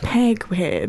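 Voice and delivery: "Penguin" said with a clumsy, blurred "-guin"; imitating Cumberbatch's mangled "Penguin". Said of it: "He's like".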